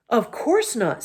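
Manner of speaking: mildly shocked denial; a touch of offended surprise; shocked bear. Acted. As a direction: bear protesting he'd never suck his paws. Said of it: "said the bear in a shocked voice".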